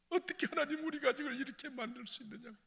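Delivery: high, crying question to God; anguished reproach. Retold or imitated. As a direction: demand why in tears. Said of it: "하나님께 원망했는지". (하나님께 따지듯 울부짖음)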